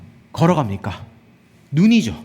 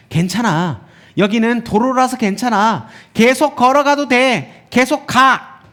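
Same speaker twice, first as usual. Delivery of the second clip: lying eye; 4 semitones higher than usual. Acted. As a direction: urge them on with a mock all-clear, building. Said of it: "그런데 눈이 거짓말을 합니다". (거짓으로 안심시키며 점점 세게 부추기듯)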